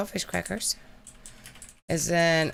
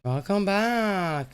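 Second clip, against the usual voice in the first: mock youtuber intro; 2 semitones higher, much slower than usual.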